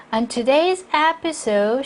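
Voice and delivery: slow phrase, stopping after "episode"; "today's" weighted, a break after "episode"; break at comma. Shown as a demonstration. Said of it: "끊어읽기 하고요". ("episode" 뒤에서 끊어 읽기)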